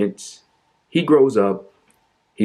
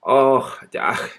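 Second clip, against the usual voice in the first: mock whimper; 4 semitones higher than usual. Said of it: "can't you hear the pain in my voice?".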